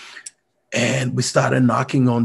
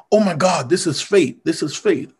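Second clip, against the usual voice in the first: raised, eager cry of discovery; excited exclamation; 4 semitones higher than usual. Retold or imitated. Dinner guest exclaims to the speaker, excitedly. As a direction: exclaim it like fate just struck.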